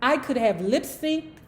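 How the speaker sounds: composed narration, dialogue lightly acted; memoir read aloud. A narrator's reading. Host reading a phone negotiation with the chairman, measured narration.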